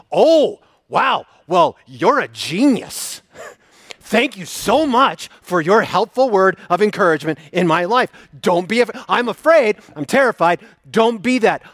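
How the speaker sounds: mock thanks dripping with sarcasm; sarcastic. Mocking a flippant comforter, dry sarcasm. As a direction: lay the fake gratitude on thick. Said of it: "You're like".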